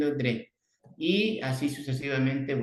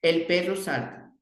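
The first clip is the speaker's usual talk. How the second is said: teacher modelling; 4 semitones higher than usual. Shown as a demonstration. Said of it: "te voy a repetir".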